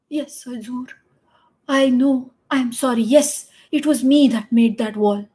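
a hint of a doddering old bricklayer; lightly voiced old workman owning up; doddering old man. Old bricklayer admits to the king, mildly doddering. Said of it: "all doddering".

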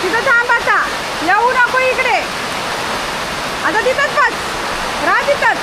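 high, held-up commands; high-pitched short orders; commanding the dog. Real, not acted. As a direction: order the pet to stay in a high voice. Ordering dog to stay put.

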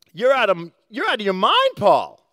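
shouted. A narrator's reading. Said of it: "he shouted".

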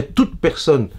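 "toute personne" said firmly and distinctly to underline it; emphatic insistence. Real, not acted. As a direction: stress on "toute personne", each word set apart. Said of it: "je dis bien".

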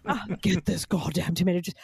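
child star playing the weary diva; lightly mimicked grand-dame complaint; imperious little demand, mildly acted; Bette Davis at six. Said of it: "It was like Betty Davis at six".

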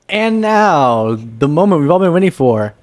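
high, loud drawn-out announcer call. Pretend. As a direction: announce his grand entrance. Announcer introducing Mark.

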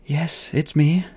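slow, a touch of a tremble; boy answering his dying friend, voice trembling. Acted. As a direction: hold back tears, speak slowly. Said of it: "his voice trembling".

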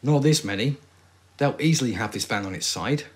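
stiff, wooden line reading; awful acting. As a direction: deliver it badly, like bad acting. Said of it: "That was awful acting".

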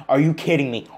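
loud, high disbelief; outraged. Real, not acted. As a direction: bark it at the screen in disbelief. Outraged at missed pass.

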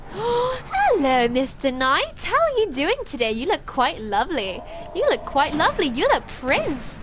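high, lilting sweet talk to the enemy; teasing singsong greeting; mock-polite sing-song. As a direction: sweet-talk him like a courtier.

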